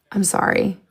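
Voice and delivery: breathy giggle through the words; can't stop laughing while apologizing; sorry, half-laughing, trying to calm down; laughing apology. Real, not acted. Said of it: "I really can't talk. I need to calm down".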